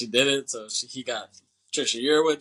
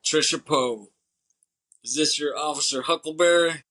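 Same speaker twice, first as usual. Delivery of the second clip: lightly voiced barfly, a bit higher; mock drunk heckler; 4 semitones higher, 4 dB louder than usual. Podcaster retelling a barfly needling the wife, mock drunk heckler. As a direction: imitate a taunting drunk at the bar. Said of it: "that drunk asshole walks over".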